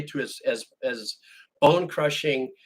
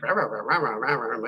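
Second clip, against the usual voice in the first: bad ventriloquism babble; 3 semitones lower than usual. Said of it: "I tried to be a ventriloquist, and I sucked".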